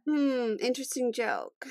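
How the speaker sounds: slow, soft, distasteful deadpan after a hum; disdainful comeback. Shown as a demonstration. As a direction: say it as if smelling bad fish. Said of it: "I just smelled like bad fish".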